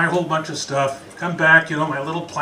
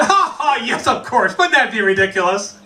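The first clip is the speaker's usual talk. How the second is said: mock smooth reply; 3 semitones higher than usual. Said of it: "I would have said".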